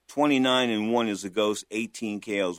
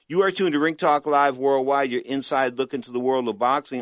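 punchy announcer opening, easing into usual level; radio host intro; 3 semitones higher, 4 dB louder than usual. Acted. Host welcoming radio listeners to live boxing talk, announcer delivery. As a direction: launch the show with a loud first phrase.

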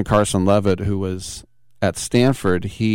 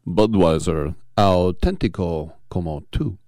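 put-on Spanish accent; 4 semitones lower than usual. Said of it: "I can't say it with a Spanish accent".

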